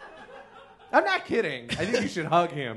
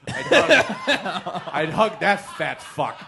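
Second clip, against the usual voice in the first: laughing; 2 semitones higher, 5 dB louder, slower than usual. Real, not acted. Laughing change of answer.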